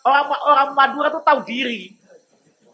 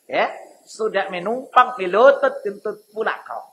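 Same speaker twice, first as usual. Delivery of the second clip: Medan dialect; 2 semitones lower than usual. Shown as a demonstration. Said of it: "Kalau pakai bahasanya silalahi begitu".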